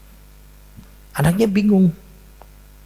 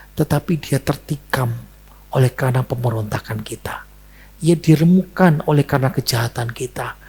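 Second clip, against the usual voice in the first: solemn scripture reading; 2 semitones lower than usual. Acted. Mengutip Yesaya dengan khidmat.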